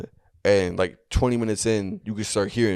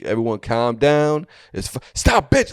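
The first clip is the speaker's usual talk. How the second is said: mock stern command; 4 semitones higher, 4 dB louder than usual. Cult leader silencing panicking crowd.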